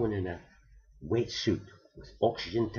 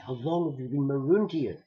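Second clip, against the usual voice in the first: lightly voiced woman, a bit higher; a hint of a gentle lady asking; woman's voice; 4 semitones higher than usual. Diver woman asks the marooned man, lightly voiced woman.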